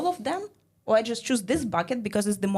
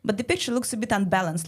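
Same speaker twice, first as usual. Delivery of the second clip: put-on higher, sugary teacher talking to a child; sweet teacher; 4 semitones higher than usual. Teacher praising a girl's drawing, a higher, sugary voice. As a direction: coo at the child like a gentle teacher. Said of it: "the teacher comes in and she's like".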